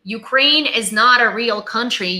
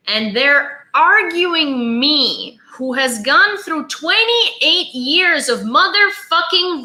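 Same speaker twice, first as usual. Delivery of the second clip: real rising indignation; 3 semitones higher than usual. Real, not acted. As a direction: build the fury line by line, pressing every word. Escalating rant about family trauma.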